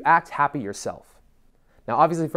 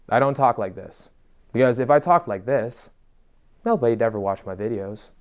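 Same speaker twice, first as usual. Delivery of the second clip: monotone; 2 semitones lower than usual. Shown as a demonstration. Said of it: "in a fucking monotone voice".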